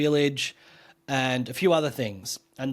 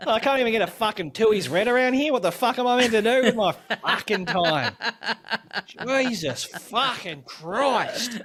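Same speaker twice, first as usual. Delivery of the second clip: higher, laughing Australian bloke moaning; mock Australian accent; 7 semitones higher than usual. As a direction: rant like a fed-up Aussie, laughing. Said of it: "change all of the accents to Australian".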